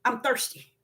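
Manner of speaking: faint, faded plea of a parched man; weak thirsty plea. Retold or imitated. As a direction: beg feebly, almost out of voice. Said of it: "If somebody walk up until you say".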